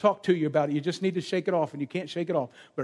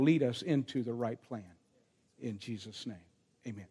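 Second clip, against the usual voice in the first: prayer. Real, not acted. Leads the congregation in prayer.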